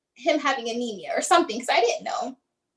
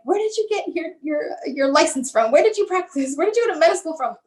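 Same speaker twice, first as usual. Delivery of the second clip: higher-pitched indignant challenge; defensive, retold; 4 semitones higher than usual. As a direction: question the doctor's credentials in re-enacted outrage. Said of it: "I became so defensive".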